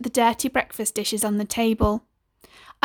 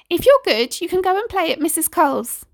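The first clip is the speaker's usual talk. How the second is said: promising mum; 7 semitones higher than usual. Acted. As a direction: promise it like a treat.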